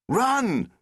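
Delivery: loud, high cry to run; urgent shout. Acted. The Doctor telling Rose to flee, urgent shout. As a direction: yell it as the monster comes.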